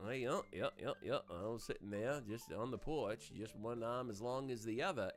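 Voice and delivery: lazy old Maine accent, imitated; imitating an old Mainer on the porch; light old country Maine accent. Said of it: "old Mainers, like, they'll do the".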